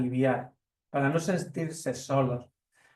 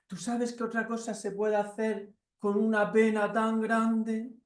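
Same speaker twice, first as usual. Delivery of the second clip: higher, slow little mouse; 6 semitones higher than usual. Acted. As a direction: recite the remedies patiently as the mouse. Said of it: "Y el ratón dice".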